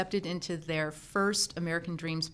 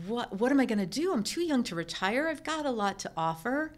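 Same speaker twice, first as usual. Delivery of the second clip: higher, quicker worried self-talk; pitched-up, hurried exasperation; retold fretting; 5 semitones higher than usual. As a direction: re-enact a mild panic about what comes next. Retells worry about her future.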